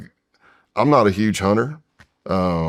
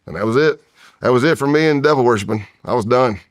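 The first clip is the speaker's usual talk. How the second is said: loud, decisive declaration; emphatic; 5 semitones higher, 5 dB louder than usual. Real, not acted. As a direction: slam the door on it. Firm end to devil worship.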